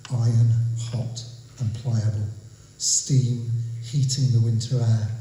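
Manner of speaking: measured storytelling verse; deliberate, evenly weighted poem recital; poetry reading. Acted. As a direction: recite the tale phrase by phrase, with pauses. Reads own poem aloud.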